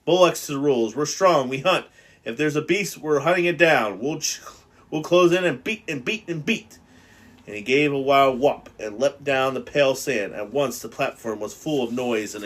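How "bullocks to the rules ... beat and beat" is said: louder defiant shout. Acted. Jack shouts down Ralph before the whole assembly. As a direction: roar it over everyone else. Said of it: "Jack was shouting against him".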